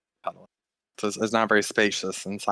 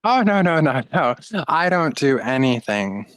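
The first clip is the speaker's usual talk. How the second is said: high flustered denial; 6 semitones higher than usual. Acted. GM voices half-elf denying.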